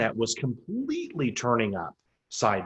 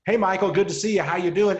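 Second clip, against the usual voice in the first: breezy, raised, tossed-off hello; throwaway greeting; 5 semitones higher, 4 dB louder than usual. Shown as a demonstration. Greeting Michael in passing, breezy throwaway hello. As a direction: say it without waiting for an answer. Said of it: "was a throwaway term".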